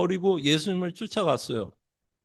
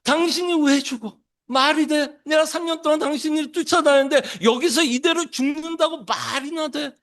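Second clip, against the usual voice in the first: higher, yelling in angry disbelief; shouted protest; 7 semitones higher than usual. Retold or imitated. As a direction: shout it out like Peter refusing. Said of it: "막 소리도 지르지 않았을까".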